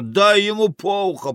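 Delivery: high fight-side call; egging-on shout. Acted. Onlooker urging the fight, high shout. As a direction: cry it high to spur a blow.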